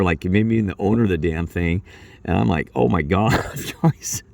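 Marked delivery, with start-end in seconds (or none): 2.7-4.2 breathless laugh. Retold or imitated. Disbelief at coworkers' mistake.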